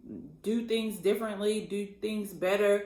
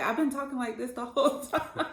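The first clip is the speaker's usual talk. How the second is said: quick, higher, laughing insistence; laughing protest; 6 semitones higher, faster than usual. Retold or imitated. Wife laughing insisting to husband she spoke normally. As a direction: rattle it off with a laugh. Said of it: "I'm like".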